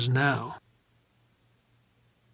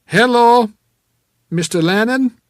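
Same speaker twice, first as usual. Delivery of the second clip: loud, raised, hearty hello; jovial, booming actor; 9 semitones higher, 10 dB louder than usual. A narrator's reading. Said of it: "That jovial, booming actor's voice".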